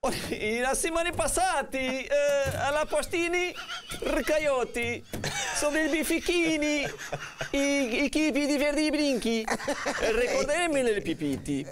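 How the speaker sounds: hammed-up fake Italian; mock Italian accent. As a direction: cod Italian gibberish accent. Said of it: "o castigo é falar em sotaque italiano".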